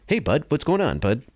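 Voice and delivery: light hint of Robert Downey Junior; Robert Downey Junior impression. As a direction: toss it off casually like Tony Stark. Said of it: "So Robert Downey Junior".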